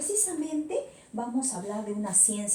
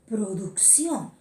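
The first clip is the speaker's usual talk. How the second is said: slow careful repeat; slower than usual. Shown as a demonstration. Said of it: "estudia la producción de los sonidos".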